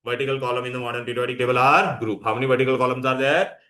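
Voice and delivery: very slow, word by word; slow dictation. Shown as a demonstration. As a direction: dictate the line for notes. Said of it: "teacher dictating".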